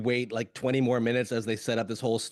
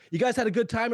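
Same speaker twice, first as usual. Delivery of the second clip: higher called-out question to a crowd; mock stage shout; 8 semitones higher, faster than usual. A musician calling to the crowd, mock shout. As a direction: call it out from the stage.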